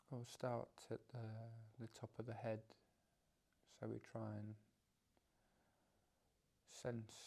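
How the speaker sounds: unhurried guidance with long pauses between phrases; measured meditation-teacher delivery, leaving space after each phrase; guided meditation. Real, not acted. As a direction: guide them gently through a body scan. Leads a body-scan meditation.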